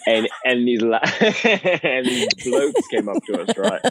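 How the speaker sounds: rough London pub accent; lightly put-on cockney. Shown as a demonstration. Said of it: "You got a bit more grungy".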